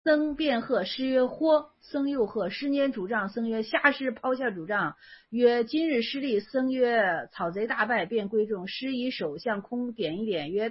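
measured classical recitation, a bit quiet; reading a koan aloud. A narrator's reading. Teacher reads classical koan to students, measured recitation. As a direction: read the old text evenly and unhurried.

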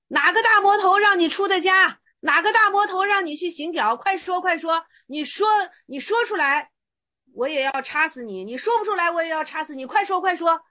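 loud, high, pressing retold shout; acted monk's fierce demand. (厉声逼问，高声喝斥)

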